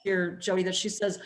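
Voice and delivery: ordinary delivery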